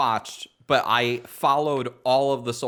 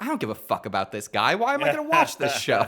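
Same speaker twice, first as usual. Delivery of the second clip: rising incredulous complaint; exasperated quote; 3 semitones higher than usual. Retold or imitated. Acting out his bored reaction.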